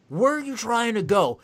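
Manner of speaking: put-on high, loud bewildered old guard; confused old man. A confused old security guard, high and bewildered. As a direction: play a baffled old man.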